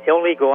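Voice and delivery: illegal leaned on firmly; stress on illegal. Real, not acted. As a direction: put deliberate weight on the word illegal. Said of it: "I stress the word illegal".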